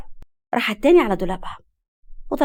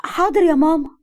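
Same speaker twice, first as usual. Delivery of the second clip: higher, raised-voice answer; calling back; 7 semitones higher, 4 dB louder than usual. A narrator's reading. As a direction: answer mum from another room. Daughter answers her mother's call. (بنت بترد على أمها بصوت أعلى)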